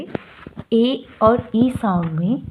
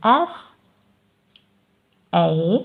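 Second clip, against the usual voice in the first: slow sounding out; much slower than usual. Shown as a demonstration. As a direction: drag "फैट" out very slowly after spelling "F ए T". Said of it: "फैट में ए की आवाज़ आ रही है".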